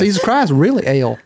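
light Kansas City twang; Southern twang, half laughing; Southern accent. Acted. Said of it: "Little Kansas City twang right there".

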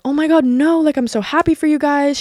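imitating a friend's high-pitched congratulations; high, gushy retold reassurance; mock gushing. Retelling the friend's reply to the dating news, mock gushing.

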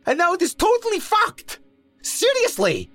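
very high, whiny, overwrought babble; shocked, high-pitched wailing ramble; babbling in shock. A narrator's reading. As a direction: spill out grievances near hysteria. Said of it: "Mo was babbling".

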